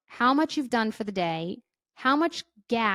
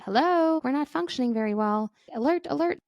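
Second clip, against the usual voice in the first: amygdala alarm; 5 semitones higher than usual. Acted. The amygdala warning the brain, high alarm call. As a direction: sound off like a warning siren. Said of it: "your amygdala is trying to say".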